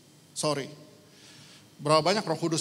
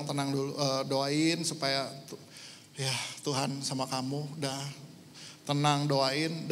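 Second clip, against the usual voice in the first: gentle reassurance; 3 semitones lower, 5 dB quieter than usual. Retold or imitated. Menenangkan ibu korban di UGD.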